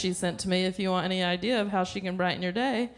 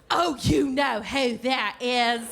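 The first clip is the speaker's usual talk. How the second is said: drawn-out, higher nagging insistence; insistent mom; 4 semitones higher, 3 dB louder, much slower than usual. Retold or imitated. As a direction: imitate a mother who won't believe you. Mother insists in acted phone call.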